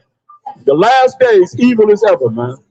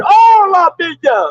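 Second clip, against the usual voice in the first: high, slow mock panic cry; mock scream; 8 semitones higher, slower than usual. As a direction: drag out a frightened wail. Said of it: "What they be screaming?".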